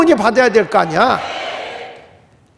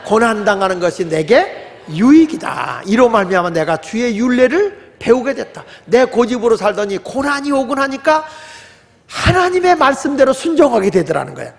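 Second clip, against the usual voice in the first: congregational scripture reading. Acted. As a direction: lead the verse together, measured. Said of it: "시작".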